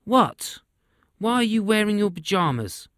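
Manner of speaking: high, incredulous royal scoffing; king sneering at his soldiers; mocking king. A narrator's reading. King Boris laughing at spies.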